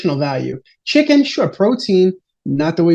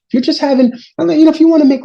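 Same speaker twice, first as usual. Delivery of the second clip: fired-up rant; 10 semitones higher, 5 dB louder, much faster than usual. Real, not acted. Gets fired up about side dishes.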